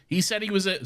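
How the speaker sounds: high put-on boy's voice; young boy. Podcaster playing the young boy, high-pitched. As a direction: pipe up like an accusing lad. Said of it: "the young boy is like".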